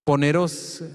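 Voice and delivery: "poneros" repeated with the accent on the last O; stress on final O. Shown as a demonstration. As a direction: land on the final syllable of "poneros". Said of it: "con acento en, en la O al final".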